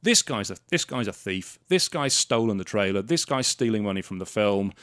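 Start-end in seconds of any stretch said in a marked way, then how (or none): none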